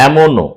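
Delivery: "এমনও" opened with a long æ sound; open æ demo. Shown as a demonstration. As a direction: say "এমনও" as "æmono", first vowel wide open. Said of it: "এই উচ্চারণটা হচ্ছে".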